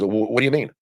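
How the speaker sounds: retold question with a touch of attitude; stammered, mildly challenging reply. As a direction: lightly imitate a defensive comeback. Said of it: "with an attitude".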